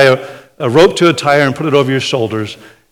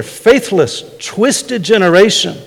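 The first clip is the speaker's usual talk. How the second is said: stern rebuke; 5 semitones higher, 4 dB louder, slower than usual. Shown as a demonstration. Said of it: "The same, same word there".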